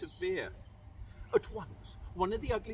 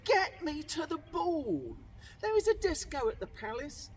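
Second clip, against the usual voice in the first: shouted demand; 8 semitones higher than usual. Acted.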